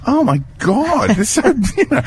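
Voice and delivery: gushing over babies. Real, not acted.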